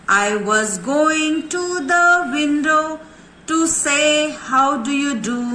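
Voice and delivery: slow poem recitation. Shown as a demonstration. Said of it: "चलिए revision शुरू करें।".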